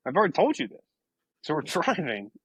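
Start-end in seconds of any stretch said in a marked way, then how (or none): 0.1-0.8 higher, mildly fed-up refusal; retold exasperated refusal. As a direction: replay turning down a persistent offer. Retelling a repeated refusal.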